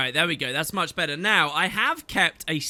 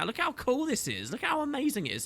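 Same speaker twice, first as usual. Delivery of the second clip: mock amazement; 7 semitones higher, 7 dB quieter than usual. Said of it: "this moment where you go".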